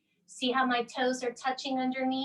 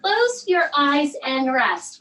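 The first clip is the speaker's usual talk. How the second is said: soothing; 5 dB louder, slower than usual. Acted. Echoes the book's mom soothingly.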